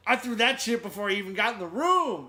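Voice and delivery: loud, high-pitched imitated boast; Black Dynamite. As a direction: belt it out like an action hero's punchline. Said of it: "Black Dynamite gets a hold of it, and he goes".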